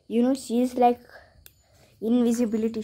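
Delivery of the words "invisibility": whisper. Real, not acted. Sleeping cat, showing quietly.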